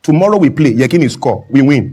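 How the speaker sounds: lightly imitated foreign coach in broken English; a hint of a Dutch coach, short separate phrases; Clemens Westlauf. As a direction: mildly mimic a coach's halting English. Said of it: "But how does he speak?".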